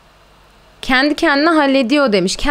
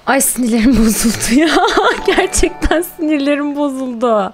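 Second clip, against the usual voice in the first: nervous laugh; 4 semitones higher than usual. Real, not acted. Stressed, laughs mid-line.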